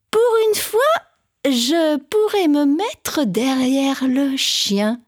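a hint of a scheming cat; sly cat thoughts. Cat thinking aloud.

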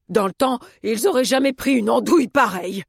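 exasperated character voice; indignant grumble. A narrator's reading. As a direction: grumble about a useless newcomer. Cook grumbles about the postman.

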